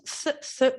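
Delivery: isolated TH as in think; th sound demo. Shown as a demonstration. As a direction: say "th, th" with tongue between the teeth, unvoiced as in "think". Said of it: "we've got this sound".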